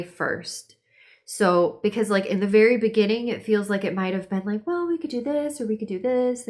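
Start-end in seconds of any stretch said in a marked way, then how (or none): 4.7-6.5 higher-pitched pondering of options; mock brainstorming, pitched up; musing aloud. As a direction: toss out options in a lighter, higher voice. Voicing early indecision.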